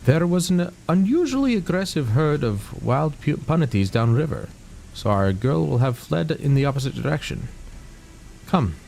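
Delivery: hint of an Indian accent, voicing the game character; half-hearted Indian accent for the quest giver; attempted Indian accent. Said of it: "He's got more of an Indian accent".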